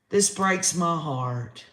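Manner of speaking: slow and steady, "This" leaned on with sorrow; sad, slightly firmer. Real, not acted. Host repeats it to viewers, slow steady sorrow.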